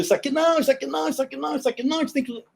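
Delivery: retelling the consultants' objections; mock consultant. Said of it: "dava consultoria falou".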